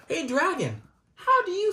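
bright hey to the dragon. Pretend. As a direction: call out to the puppet. Calls to the dragon puppet.

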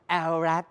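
แอลแรด as the English acronym, not read as Thai words; English-accent LRAD. Shown as a demonstration. Host teaching viewers to say แอลแรด, English-style. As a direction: say แอลแรด the English way, el-rad, with a falling end. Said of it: "เป็น accent ภาษาอังกฤษนะฮะ".

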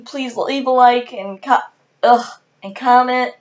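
hiccup interrupts the phrase. Real, not acted. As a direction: talk through hiccups. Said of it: "Please excuse my hiccups throughout this video".

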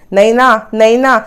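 drawn-out call at normal volume; retold mock yell. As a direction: call out slowly, imitating an angry shout without real force. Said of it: "असं मोठ्या मोठ्याने ओरडा करायला लागतो". (हाक मारल्यासारखं लांबवून, ओरडण्याची सौम्य नक्कल)

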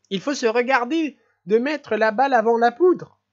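a man who can't stop laughing; giddy laughing prince. Acted. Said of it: "en éclatant de rire".

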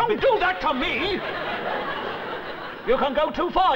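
flustered high-pitched outburst; outraged shout. Acted. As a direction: shout him off, appalled. Sergeant recoils from handshake, outraged.

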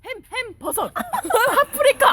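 loud high excited pitch, shouting; home shopping host. Acted. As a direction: yell the show intro like a host. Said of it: "액션".

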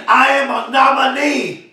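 excited. Real, not acted. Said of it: "I'm excited, y'all".

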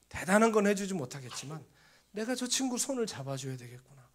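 usual speaking voice

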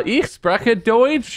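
mock German. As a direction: show off in German, proudly. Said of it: "our accents are very convincing".

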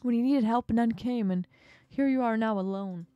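booming mock congratulations; triumphant villain gloat. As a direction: crown the shark's despair. Octopus final gloat.

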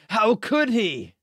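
loud, high, drawn-out wail; mock outraged cry. Streamer mimicking the angry Albus, mock outrage. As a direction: cry out in hammed-up betrayal.

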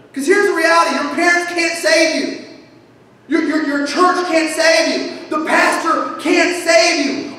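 slow, emphatic preaching with each word hammered; slowing, rising preacher's insistence; preaching emphasis. Real, not acted. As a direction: drive it home to the congregation. Preacher building to emphatic point.

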